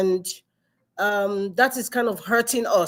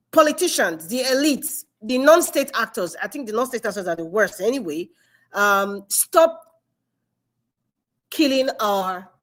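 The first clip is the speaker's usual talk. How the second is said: emphatic plea. Pretend. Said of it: "I wanted some emphatic word to say".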